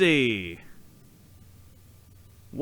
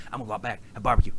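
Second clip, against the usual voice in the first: Bush Junior impression; 5 semitones lower, 4 dB quieter, much faster than usual. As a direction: lightly mimic George W. Bush. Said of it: "his Bush Junior impression".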